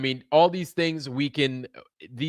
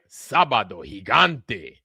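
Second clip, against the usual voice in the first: TV announcer; 4 semitones lower, 4 dB louder, slower than usual. Retold or imitated. Imitating the TV show announcer.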